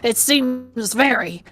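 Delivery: high, put-on old man with southern accent; Shakespeare. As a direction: lecture them slowly as a theatrical old Southerner. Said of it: "like, a southern accent".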